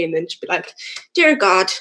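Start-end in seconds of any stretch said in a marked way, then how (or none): 1.1-1.7 lightly put-on Irish accent; gran's prayer in a hint of Irish accent. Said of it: "don't know why I'm doing the Irish accent".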